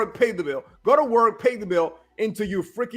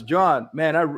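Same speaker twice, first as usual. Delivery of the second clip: lightly imitating a relaxed client, lower; a touch of relief, retold in a lower voice; relieved, relaxed; 5 semitones lower, slower than usual. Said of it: "he sounded more relaxed now".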